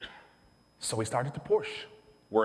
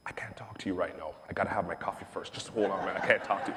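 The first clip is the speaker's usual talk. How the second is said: groggy coffee-less whisper; 3 semitones lower, 4 dB quieter, faster than usual. Retold or imitated. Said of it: "people would".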